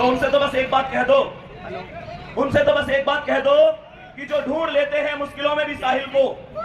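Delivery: measured, emphatic verse delivery; shayari recitation. Acted. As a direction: recite rousing couplets to a crowd. Recites motivational couplets to students. (जोशीला शायरी पाठ)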